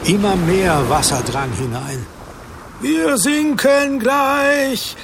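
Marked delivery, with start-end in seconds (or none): 2.8-4.9 high, drawn-out cry of panic; slow terrified shout; panicked scream. Acted. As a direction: scream it as the boat goes down. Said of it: "schrie Matthäus".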